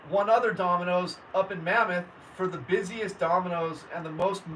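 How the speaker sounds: ordinary delivery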